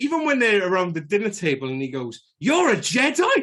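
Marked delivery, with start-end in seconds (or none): 2.4-3.4 very high, shrill, yelling outburst. Quoting an actor's line at the dinner table: imitating Jake Lloyd yelling. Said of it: "he's yelling at him".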